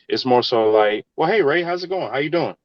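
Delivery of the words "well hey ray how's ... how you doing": higher-pitched, chatty hello; friendly greeting. Retold or imitated. Colleague greeting him before business, friendly and high. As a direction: greet a work buddy, pitch lifted.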